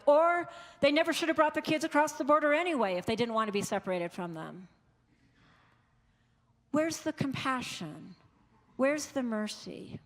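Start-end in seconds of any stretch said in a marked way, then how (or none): 0.1-4.7 fast, louder and higher, scornful; mock hard-hearted voice brushing off separated families; callous dismissal. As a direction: rattle off the excuse like a cold heart. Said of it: "a heart of stone".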